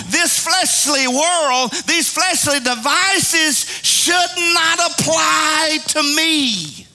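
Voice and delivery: slow, shouted preaching with music behind; preaching climax. Real, not acted. Preacher proclaims slowly to the church over the organ. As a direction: drag every word out and proclaim it.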